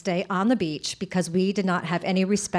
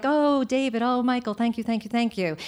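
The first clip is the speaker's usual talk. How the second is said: Kennedy-esque; 3 dB quieter than usual. Retold or imitated. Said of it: "Kennedy-esque way of speaking".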